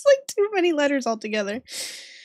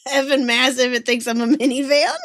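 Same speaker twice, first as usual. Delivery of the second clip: put-on British accent. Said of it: "This British meme with this guy".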